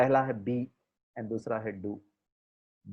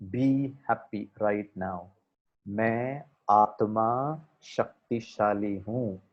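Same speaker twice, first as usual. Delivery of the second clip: slow, steady self-affirmation; slow affirmation voice, lower pitch; calm affirmation; 4 semitones lower, slower than usual. Shown as a demonstration. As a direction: recite it like a meditation mantra. Leads positive affirmations.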